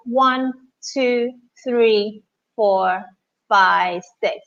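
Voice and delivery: slow, calm breath counting. Acted. Counts a guided breathing exercise.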